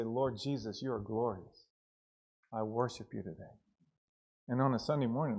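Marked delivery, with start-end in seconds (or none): 0.0-3.5 low, hushed words of worship; reverent prayer. Acted. Preacher voicing a daily prayer to Jesus, low and reverent. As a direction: pray it quietly and sincerely.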